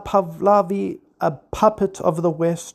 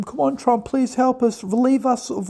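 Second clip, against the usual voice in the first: mock pleading; 5 semitones higher than usual. Mocking Western media pleading.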